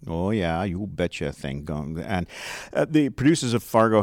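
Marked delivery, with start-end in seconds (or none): 0.1-1.3 Minnesota accent. Shown as a demonstration. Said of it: "everybody needs to hear that".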